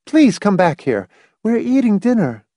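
high-pitched, penetrating appeal; urgent call. A narrator's reading. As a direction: summon someone back to the table urgently. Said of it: "in an urgent, penetrating voice".

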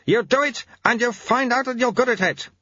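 high-pitched growling order; acted gruff urging; growled. A narrator's reading. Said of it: "growled Lutze".

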